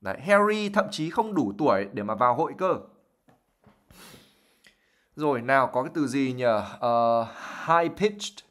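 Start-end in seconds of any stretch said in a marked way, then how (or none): 0.2-2.8 mock mother voice. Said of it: "giống cái giọng của mẹ nó".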